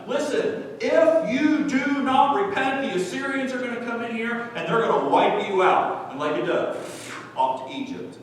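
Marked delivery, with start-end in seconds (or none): 0.1-6.1 pleading God. Acted. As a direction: beg them to repent. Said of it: "he is pleading with them".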